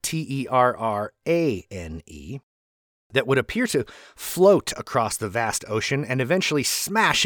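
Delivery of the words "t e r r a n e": "T E R R A N E" read letter by letter; letter-by-letter spelling of "T E R R A N E"; spelled out. Shown as a demonstration. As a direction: spell "T E R R A N E" out, each letter separate. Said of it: "but it's spelled".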